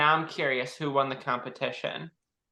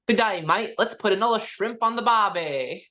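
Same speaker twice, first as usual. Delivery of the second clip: higher-pitched stereotypical Aussie accent; Australian accent; 4 semitones higher than usual. Shown as a demonstration. Co-host taking the challenge after apologizing to an uncle, hammed-up Australian accent. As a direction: lift the pitch into a corny Australian greeting. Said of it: "give me your best Australian accent".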